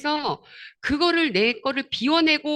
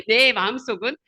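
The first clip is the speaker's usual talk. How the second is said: usual speaking voice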